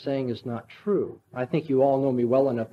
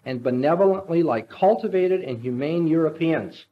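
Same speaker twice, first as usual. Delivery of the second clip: reading Ivan's speech with rising passion; dramatic reading. Acted. Preacher reading Ivan's rebellion to his congregation, impassioned. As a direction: read the novel aloud like a man in torment.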